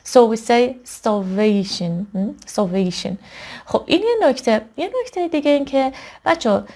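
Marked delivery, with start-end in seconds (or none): 1.0-2.1 starvation, slowly, with VA drawn out; a teacher's slow starvation, stressed on VA; stressed middle syllable. Shown as a demonstration. 2.6-3.1 Starvation with the stress on VA; Starvation, second syllable stressed; stressed middle syllable. Shown as a demonstration.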